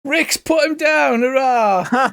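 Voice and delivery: high, drawn-out hurrah; mock cheering. Game master cheers a decisive hit.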